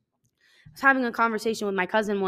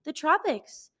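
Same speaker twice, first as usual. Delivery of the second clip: mock tropical sigh; 6 semitones higher, slower than usual. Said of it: "It's like".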